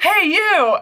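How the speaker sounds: loud, high call as Hellboy, laughing. Retold or imitated. Hellboy yelling at the little creature, a loud laughing call. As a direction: shout it across the room with a laugh.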